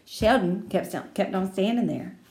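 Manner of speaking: plain reading voice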